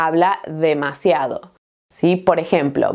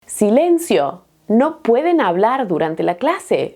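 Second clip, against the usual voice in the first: mock strict teacher; 3 semitones higher than usual. Teacher hushing noisy students, mock stern. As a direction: hush the class, then snap silencio. Teacher acting out a class scene.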